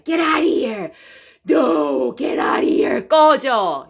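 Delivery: loud "Get out of here" run together as "ker-ar-ie"; loud playful disbelief; incredulous shout. Shown as a demonstration. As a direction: yell it like "no way!". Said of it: "여기서 나가가 아니고요".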